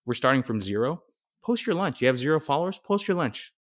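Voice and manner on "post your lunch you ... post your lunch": higher, mock-encouraging challenge; sarcastic dare. Host teasing beginners with zero followers, sarcastic dare. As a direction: dare them to try it, half-teasing.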